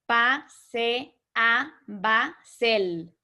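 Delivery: "Pa, se, a, ba, sel" in separate beats, "sel" joined; syllables beaten out. Shown as a demonstration. Teacher to class, beating out the joined syllables. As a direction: tap each syllable, merge "se" and "el" into "sel". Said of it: "lo estamos leyendo así".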